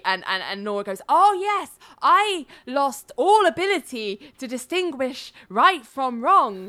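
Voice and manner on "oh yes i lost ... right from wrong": high, over-emphatic recital with swooping pitch; fed-a-line witness. Retold or imitated. Witness parroting what her lawyer coached, fed-a-line delivery. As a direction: overplay a coached answer, pitched up. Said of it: "someone's just fed her a line".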